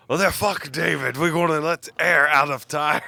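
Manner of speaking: lightly put-on Russian accent; shitty Russian accent. Podcaster mimicking the Russian helper, mock Russian accent. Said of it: "It's my shitty Russian accent".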